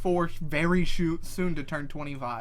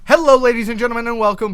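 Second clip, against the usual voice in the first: announcer voice; 5 semitones higher, 10 dB louder, faster than usual. Acted. Doing the podcast intro.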